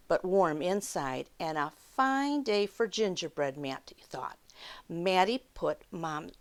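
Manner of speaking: unhurried read-aloud for little listeners; children's story time narration. A narrator's reading. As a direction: tell it like a picture-book storyteller.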